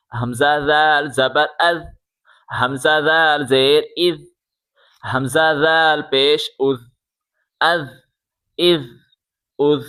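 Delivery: "از" ends in a soft voiced th; soft buzzing th closing each "از"; soft dhal. Shown as a demonstration. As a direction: say "ذال" and "از" gently with the tongue out. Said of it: "نرمی کے ساتھ پڑھیں".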